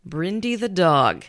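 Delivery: slow, drawn-out sarcastic reveal; name the culprit with dry, stretched-out sarcasm. Real, not acted. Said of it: "hear the sarcasm in my voice".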